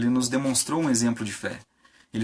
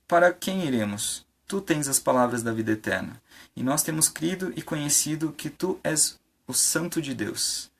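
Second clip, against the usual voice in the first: Scripture reading. Acted. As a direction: read the verse out solemnly, unhurried. Reads Scripture aloud to the congregation. (leitura bíblica pausada)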